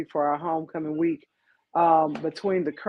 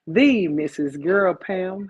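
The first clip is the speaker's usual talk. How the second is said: announcer introduction; 4 dB louder, slower than usual. Acted. Introducing co-host with flourish.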